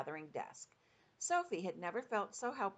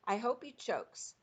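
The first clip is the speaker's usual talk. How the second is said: fierce wish; 6 semitones higher, 4 dB louder than usual. A narrator's reading. Sophie angry at the giant.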